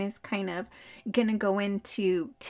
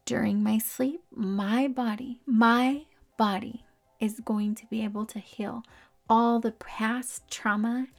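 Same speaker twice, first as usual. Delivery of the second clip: self-affirmation. Shown as a demonstration. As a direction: recite it to yourself with weighted pauses. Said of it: "I tell myself".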